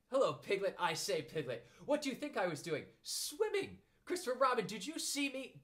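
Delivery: very high, excited squeak; squeaky little Roo. A narrator's reading. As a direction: squeal it like a proud small child. Roo boasting.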